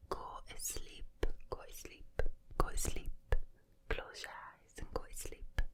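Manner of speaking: whispered Geordie sleep chant; Geordie accent. Shown as a demonstration. Host tells listeners to go to sleep, whispering in Geordie. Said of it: "I love the Geordie accent".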